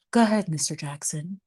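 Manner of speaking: lightly voiced Aunt Bev, just the tone; Aunt Bev's tone. Shown as a demonstration. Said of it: "maybe it's the tone".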